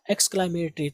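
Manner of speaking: "Exclamatory" as eks-klay-me-tri, dropping the o; quiet model "Exclamatory" ending "-tri"; correct pronunciation. Shown as a demonstration. Teacher answers her own question with the right "Exclamatory". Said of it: "क्या पढ़ेंगे?".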